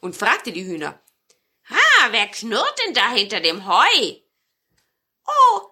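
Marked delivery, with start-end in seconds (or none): 1.7-4.2 startled marten. A narrator's reading. Marten hears growling. 5.2-5.6 very high, loud hen cry; a bright little hen squeal; hens exclaiming. A narrator's reading. Hens answer the marten with a high loud oh. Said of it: "sagten die Hühner".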